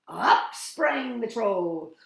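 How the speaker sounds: loud, drawn-out narration; big storybook surprise; dramatic sudden leap. A narrator's reading. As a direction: pop the first word, then stretch the rest. Troll leaps up in story.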